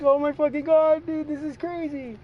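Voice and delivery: very high, loud disbelief; mock-appalled high-pitched outburst; retold shock. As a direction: exclaim it in hammed-up astonishment. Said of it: "I'm like".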